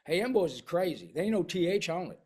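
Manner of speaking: rural drawl. Shown as a demonstration. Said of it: "I say".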